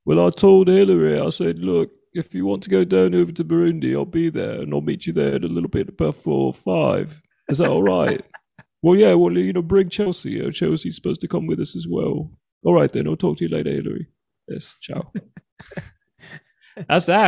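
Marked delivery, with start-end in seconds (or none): 0.1-8.2 chatty put-on English accent, easing down; British-accented president impersonation; English Bill Clinton. Shown as a demonstration. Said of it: "Then if he's English". 8.8-15.1 chatty mock-English politician; raised English-accented voice, dropping away at the end; British-accented president on a casual call; English Bill Clinton. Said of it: "Then if he's English".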